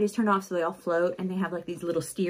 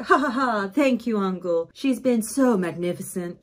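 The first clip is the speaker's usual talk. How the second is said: fake laugh. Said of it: "plays it out".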